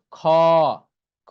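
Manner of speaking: খ from right inside the throat, vowel held; from deep inside. Shown as a demonstration. Teacher showing a hard Arabic letter, deep throat খ. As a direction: pull খ from the very back of the throat. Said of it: "ভিতর থেকে, এই দেখেন ভিতর থেকে আসতেছে".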